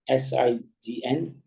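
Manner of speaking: letter by letter, slowly; spelling out slowly. Shown as a demonstration. Teacher spelling the word to students, slowly. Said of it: "जैसे".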